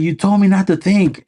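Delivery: high-pitched cheeky comeback; hammed-up high voice; mock pilot reply. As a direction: squeak the line back smugly. Quoting movie reply.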